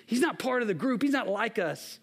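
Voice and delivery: acting out frustrated disciples' protest; retold frustration. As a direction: tattle on an outsider, mildly indignant. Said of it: "they are frustrated".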